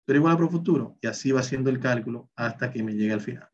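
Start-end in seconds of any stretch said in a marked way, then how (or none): 0.0-1.0 function asking. Retold or imitated. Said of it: "¿qué él dice?".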